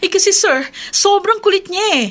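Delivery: whiny complaint. Acted. Secretary complaining to boss.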